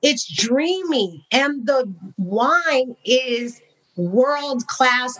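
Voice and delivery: high, slowing, savoring each word; gushing praise. Retold or imitated. Guest rhapsodizing to Amanda about the wine country, high and slow. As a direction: rave about it like a dream.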